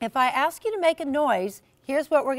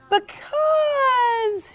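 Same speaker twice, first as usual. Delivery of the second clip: high, loud wailing groan; 13 semitones higher, 4 dB louder than usual. Acted. Jessica explaining her fight with dad, a loud wailing groan. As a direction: moan it out in despair. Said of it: "she groaned".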